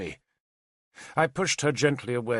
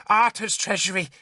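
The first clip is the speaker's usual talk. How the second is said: sarcastic; 7 semitones higher than usual. A narrator's reading. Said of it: "Argant said sarcastically".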